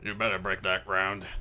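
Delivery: put-on boss voice, shout now gone; irate police captain. Captain warns detective before leaving, restrained threat. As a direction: give a contained parting warning. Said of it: "Jackson comes up to you and goes".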